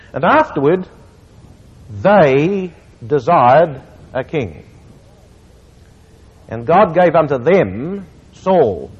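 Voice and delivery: slow scripture reading, key words stressed; proper emphasis. Shown as a demonstration. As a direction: read it slowly, weighing each phrase. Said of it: "with what I think is the proper emphasis".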